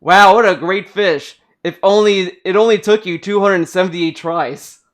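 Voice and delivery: drip sarcasm over the compliment; snarky talking book mocking the player's fishing; sarcastic book. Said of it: "the book just says".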